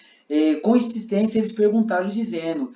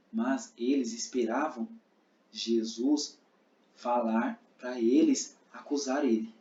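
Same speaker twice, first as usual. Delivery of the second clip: softer, lower narrating; narrator voice; 4 semitones lower, 5 dB quieter, slower than usual. Shown as a demonstration. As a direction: tell it as the narrator. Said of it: "aí eu tô sendo narrador". (voz de narrador, mais baixa)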